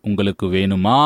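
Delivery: closed question with "வேணுமா" lifted on its final vowel; inflected question. Shown as a demonstration. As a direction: lean up into the ending "maa" of "வேணுமா". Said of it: "there is an inflection in closed question".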